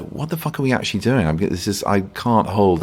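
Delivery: a hint of a hissy fit; retold hissy fit. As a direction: replay the on-set frustration with a touch of heat. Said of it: "I was having a bit of a hissy".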